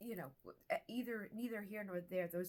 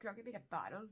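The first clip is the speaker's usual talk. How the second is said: normal talking voice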